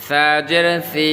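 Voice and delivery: 'সি' th-like from the tongue tip; tongue-tip pronunciation. Shown as a demonstration. Teacher compares similar letters, 'সি' from the tongue tip. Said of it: "জিহ্বার আগা থেকে".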